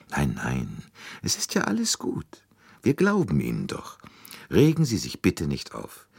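calm a frightened woman down gently; comforting. Acted. Poirot soothing the frightened maid in a hushed voice. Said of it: "tröstete sie".

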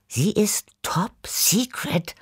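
slow secretive whisper; a cat whispering a secret to its friends. Acted. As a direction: breathe it like a secret no one may hear. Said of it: "flüsterte ich".

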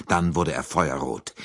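ordinary delivery, nothing marked

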